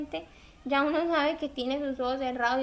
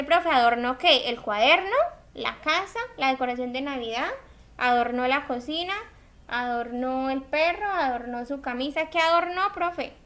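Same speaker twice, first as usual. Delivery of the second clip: confused student. Retold or imitated. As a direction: play the lost student demanding what was decorated. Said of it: "usted me dice".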